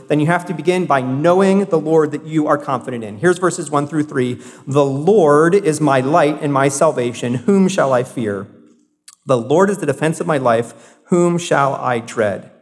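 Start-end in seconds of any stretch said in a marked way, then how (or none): 4.6-12.5 slow, weighty reading of the psalm; scripture reading. Acted. Pastor reading Psalm twenty-seven to the congregation, slow and solemn. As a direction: read the verses out slowly and solemnly.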